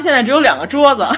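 put-on lightly Japanese-accented Mandarin; a hint of a Japanese speaker. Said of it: "是不是我的发音还挺日".

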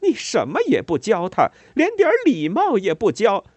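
high, loud, pained rage pouring out; anguished furious tirade. A narrator's reading. Mother raging at the neighbour over her son. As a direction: let the pain and anger flood out. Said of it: "仿佛一股痛苦、愤怒、挣扎的洪流".

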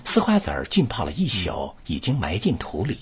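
one flowing recital breath; model reading. Shown as a demonstration. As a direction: read it in one go, smoothly linked. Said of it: "跟读". (一气呵成地示范朗读)

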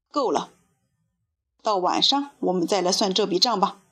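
a touch of hoarse storybook villain; hoarse monster voice. A narrator's reading. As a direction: cut it short like a threatening ogre. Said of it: "他的声音嘶哑得像一只得了重感冒的怪兽".

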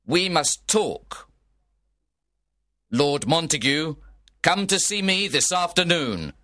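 a prince's measured, angry decree. Acted. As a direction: lay down the law to the feuding lords. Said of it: "He was very angry".

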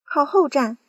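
loud, high warning yell; aunt yelling to stand back. Acted. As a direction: bark the order. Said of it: "嚷道".

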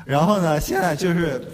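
cracking nervous voice. Real, not acted. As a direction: voice breaks from nerves. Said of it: "啊，又破音了".

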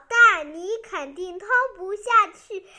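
loud, mildly fierce defiance; fierce roar. Acted. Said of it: "爷爷凶狠地吼道". (略带凶狠地大声吼)

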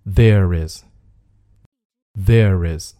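there is joined as "thair-riz", spaced repeats; linked pronunciation. Shown as a demonstration. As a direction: slide from there into is through the R. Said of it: "就会变成". (there is 连读，中间带 r 音)

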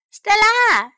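high, loud, held-out call; excited cry. A narrator's reading. Sam calls Stella to come, excited cry. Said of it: "山姆叫了起来".

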